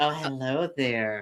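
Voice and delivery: soft, creepy, weird flirty tone. Showing how they flirt as a D&D character: creepy flirting. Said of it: "your version of flirting is a little bit creepy and weird".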